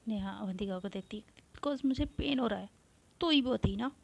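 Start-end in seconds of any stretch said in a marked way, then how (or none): 1.5-4.0 angry. Acted. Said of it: "गुस्से से".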